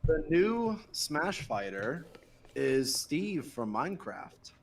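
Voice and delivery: dramatic reveal. Acted.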